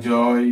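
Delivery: "জয়" with a full oy glide; oy sound. Shown as a demonstration. Teacher modelling oy in "জয়" for learners, slow demo. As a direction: say "জয়" slowly and loudly, ending in oy. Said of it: "সেটাকে বলা হয় আমাদের অয় দিয়ে".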